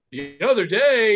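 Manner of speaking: slow, drawn-out setup; stagey retelling. Retold or imitated. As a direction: imitate a hack comic setting up a bit. Imitates comic repeating his rant onstage.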